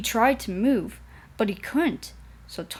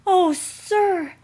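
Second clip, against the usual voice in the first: high, loud delighted cry; happy; 10 semitones higher, 7 dB louder than usual. A narrator's reading. Thomas thanks the director, high and delighted. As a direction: burst out with joy, high. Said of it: "said Thomas happily".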